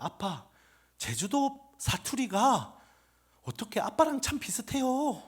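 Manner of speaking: a hint of a kid asking dad; imitated child. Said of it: "우리 애가 그래".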